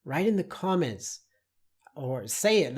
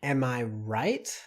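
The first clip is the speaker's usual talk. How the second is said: slow example; 2 semitones lower, slower than usual. Shown as a demonstration. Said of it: "then you ask".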